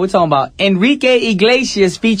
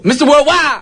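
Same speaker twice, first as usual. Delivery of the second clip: a rapper's tag; 11 semitones higher than usual. Retold or imitated. Host copying the rapper's signature tag, high stretched call. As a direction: imitate a rapper's shout-out tag. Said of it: "he always does that".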